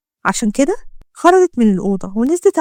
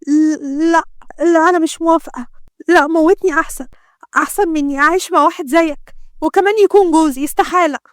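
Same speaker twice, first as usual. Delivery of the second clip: higher, defiant woman's voice; desperate refusal; 5 semitones higher than usual. Acted. Doctor refuses to marry the gangster, desperate and defiant. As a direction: refuse him outright, rather die.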